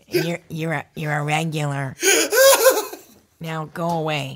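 laughing through the retold brush-off; amused voice for the club owner; imitating Mitzi, laughing.

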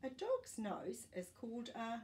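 put-on lively read-aloud voice for kids; gentle picture-book reading; reading to children. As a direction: read the page to little listeners.

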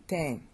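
"Tang" with the voice going down at the end; falling pitch accent. Shown as a demonstration. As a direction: drop Tang like a Mandarin fourth tone. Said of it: "Your voice is going down".

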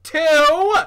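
loud, high-pitched barked count; barked again. A narrator's reading. Bully repeats his countdown threat, barking high. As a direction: bark the number, pitch leaping up. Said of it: "Jasper Junior barked again".

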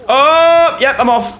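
high panicked yelp, fleeing; high panicky getaway. Real, not acted. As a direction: squeak it out as you bolt. Spotted by monster.

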